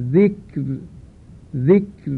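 ذکر stopped on a thin, light ر; ذکر said at a pause with fine ر; pausal form. Shown as a demonstration. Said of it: "هنگام وقف می شود".

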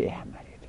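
احمرر as a soft "ehmarir"; unmerged form. Shown as a demonstration. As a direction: say احمرر with two separate r sounds.

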